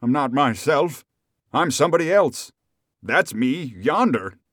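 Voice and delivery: frantic, high and building; at wits' end. A narrator's reading. Rip no longer knows who he is, frantic confusion. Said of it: "at his wits' end".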